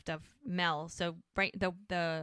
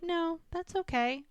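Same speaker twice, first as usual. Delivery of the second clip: reassuring; 11 semitones higher than usual. Retold or imitated. Woman answering his apology about today, reassuring. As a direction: let him off the hook in a high voice.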